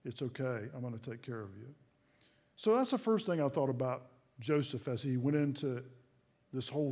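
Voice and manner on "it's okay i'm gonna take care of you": softer and lower, fading; God's quiet reassurance, fading softer; soft whisper. Acted. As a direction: tuck it in like a lullaby. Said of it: "God could whisper in our heart".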